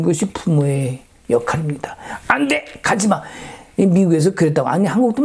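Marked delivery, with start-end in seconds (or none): 2.3-3.2 forbidding cry. Pretend. Parent forbidding son, hypothetical.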